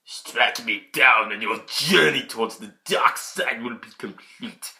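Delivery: slow, lightly voiced taunt from the Emperor; a hint of a menacing old villain. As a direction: tease him slowly toward the dark side. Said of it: "He's really taunting him".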